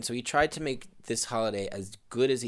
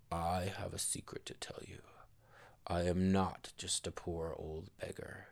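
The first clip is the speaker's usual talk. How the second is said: whispered secret; 2 semitones lower, 8 dB quieter than usual. Acted. Harry revealing himself to the couple, whispered secret.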